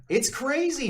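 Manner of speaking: high-pitched laugh through the words. Real, not acted. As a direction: laugh it out slowly. Laughs at partner's joke.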